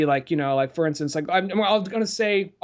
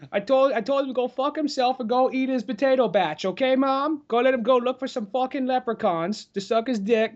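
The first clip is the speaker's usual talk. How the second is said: mock whiny kid; 8 semitones higher than usual. Mocking kid ranting to mom.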